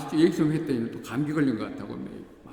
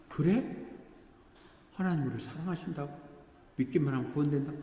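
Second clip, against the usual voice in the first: higher, quick, incredulous gentiles hearing the gospel; amazed disbelief; 4 semitones higher than usual. Retold or imitated. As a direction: ask it in wide-eyed wonder, fast. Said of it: "너무 놀라면서".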